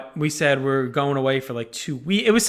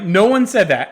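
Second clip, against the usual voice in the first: raised, louder retold denial; defensive protest; 4 semitones higher, 5 dB louder than usual. Father defending himself to mother-in-law, defensive protest. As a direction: act out insisting on your innocence.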